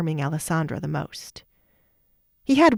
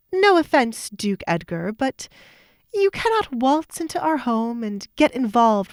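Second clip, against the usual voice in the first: lightly voiced young woman, sharp and defensive; a hint of a resentful stepsister; indignant stepdaughter; 4 semitones higher, 4 dB louder than usual. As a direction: push back at the Duke with prickly indignation. Kate confronts the Duke.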